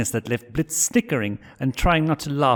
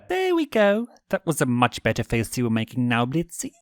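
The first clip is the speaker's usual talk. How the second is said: smug; 3 semitones higher than usual. Acted. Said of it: "grin turned smug".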